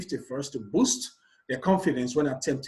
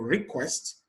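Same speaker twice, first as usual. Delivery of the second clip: request said slowly as re-QUEST; stress on second syllable; 4 dB quieter than usual. Shown as a demonstration. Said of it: "on the second syllable".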